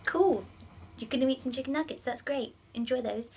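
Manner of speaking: fast, fake-bright sarcastic reply; sweetly sarcastic brush-off; sarcastic cheer. Vegan answering a nugget-eating guest, fast fake-cheery sarcasm. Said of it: "And I was like".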